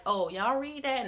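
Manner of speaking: light, offhand "Oh, y'all read that?" with no judgment; casual mild question. Shown as a demonstration. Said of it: "No, it's not that".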